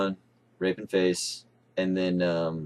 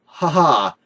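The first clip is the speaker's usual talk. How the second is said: high, loud spluttering "ha ha" as if mouth full of tea; laugh through a mouthful; 6 semitones higher, 8 dB louder than usual. Retold or imitated. Friend retells choking on tea, laughing with a full mouth. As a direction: burst out laughing with the cheeks full. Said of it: "with a mouthful of tea".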